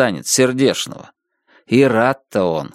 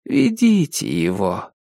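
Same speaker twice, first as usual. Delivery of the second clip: gentle, softer, slower order; mock-kind officer sending him off softly; soft-hearted voice; 4 semitones lower than usual. A narrator's reading. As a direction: say it tenderly, like a mercy. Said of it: "таким мягкосердым голосом".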